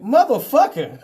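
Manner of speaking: loud laughing outburst of disbelief; loud laughing groan; group outcry. Retold or imitated. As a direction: yell it out together, half laughing. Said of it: "everybody went".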